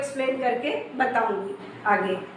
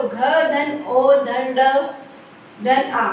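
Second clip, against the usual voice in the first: slow spelling; slower than usual. Shown as a demonstration. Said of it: "तो घ में ओ की मात्रा".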